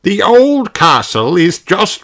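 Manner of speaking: a hint of a grandpa voice; Grandpa Pig. A narrator's reading. Grandpa Pig on the phone giving directions, lightly voiced. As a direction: say it kindly as the old grandfather. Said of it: "said Grandpa Pig".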